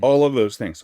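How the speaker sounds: talking through hiccups; hiccuping between words. Real, not acted. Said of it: "Oh my gosh, I have the hiccups".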